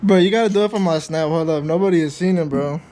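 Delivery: loud hyped shout; excited shouting. Real, not acted. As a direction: yell it hyped up for the camera. Hyping friend to film for snap.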